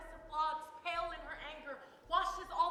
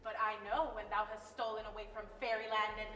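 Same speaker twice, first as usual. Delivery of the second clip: hammy stage actor; 6 dB louder than usual. Acted. Titania accuses Oberon.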